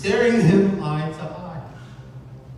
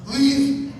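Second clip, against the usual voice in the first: furious command; 5 semitones higher, slower than usual. Acted. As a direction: drive the fiend out with rising fury. Man banishing raven from chamber.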